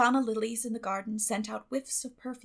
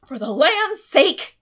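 much louder, high, slow exclamation; shocked gasp; 7 semitones higher, 15 dB louder, slower than usual. A narrator's reading. Guardian exclaims at the shrieking child, shocked. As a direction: burst out in shock. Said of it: "gasped Marilla".

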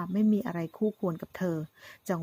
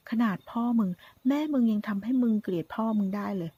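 taunting villain. Acted. Gunman taunting the son about his mother, sneering menace. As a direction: lean on every insult like a cornered thug.

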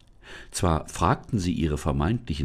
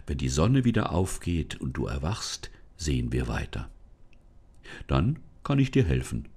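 a lightly lower kindly spirit voice; forest spirit; 4 semitones lower than usual. Acted. Forest spirit greets the lost girl, lightly lower voice. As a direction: speak as a calm old forest spirit.

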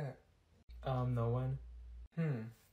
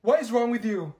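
usual speaking voice

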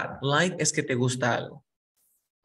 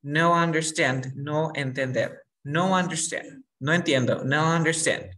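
slow broken English. Shown as a demonstration. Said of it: "yo hubiese dicho".

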